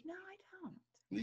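slow, drawn-out Southern "No, I don't"; mock Southern drawl. Denying her accent to friends, in a slow Southern drawl. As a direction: drag it out in a Southern twang. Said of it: "I do not have a Southern accent".

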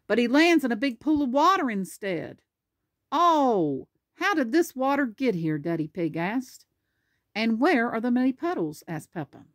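lively picture-book narration; animated storybook reading; reading to children. Acted. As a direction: read it out clearly for a small child. Reads picture book aloud.

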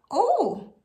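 high-pitched, kindly rabbit voice; high, kind storybook reply. Acted. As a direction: say it with sympathetic understanding. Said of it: "said the rabbit kindly".

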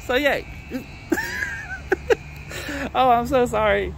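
high-pitched, breaking into helpless laughter; real laughing fit squeezing the words high; laughing uncontrollably. Real, not acted. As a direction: fight through the giggles, near tears. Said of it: "I'm almost crying here".

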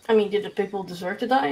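soft and tiny, barely audible; too quiet to hear; whispering like a mouse. Real, not acted. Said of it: "whispering like a mouse".

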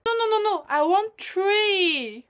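"three" with a hard t, no th, frantic; Singlish. Shown as a demonstration. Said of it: "pronouncing words like ch instead of ts".

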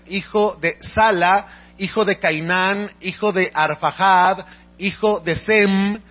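reading a long genealogy aloud, measured and even; lectura bíblica solemne. Acted. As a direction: recite each name like scripture read from the pulpit. Reads genealogy from scripture. (lectura solemne y pausada de la genealogía)

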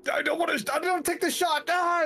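high-pitched mock-panicked cop voice; reluctant cop. Streamer mimics cop unwilling to shoot the perpetrator, high mock panic. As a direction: squeal it like a cop dodging the shot. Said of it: "like a cop that doesn't want to shoot".

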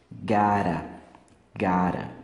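"Gotta" as "gara", with a tapped R; joined "gotta". Shown as a demonstration. Teacher modelling "gotta" for learners, joined with tapped R. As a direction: say "gotta" low, T softened to R. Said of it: "Assim, ó".

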